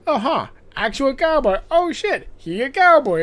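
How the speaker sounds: mock awestruck. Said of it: "And he's like".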